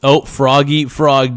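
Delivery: usual speaking voice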